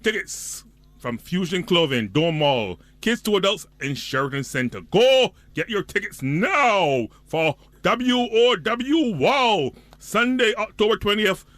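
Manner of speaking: excited announcer hyping a boat party; event promo read. Acted. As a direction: pump it up like a radio promo. Reads an event ad.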